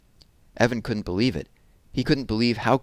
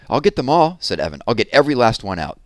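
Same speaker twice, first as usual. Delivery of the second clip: put-on frantic boy; 4 semitones higher, 7 dB louder than usual. Evan frantic, scooping bugs.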